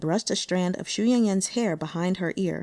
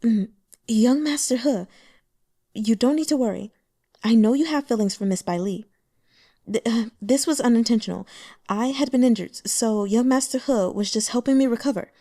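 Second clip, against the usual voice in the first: soft voice; 3 semitones higher, 3 dB louder than usual. Acted. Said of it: "said in a soft voice".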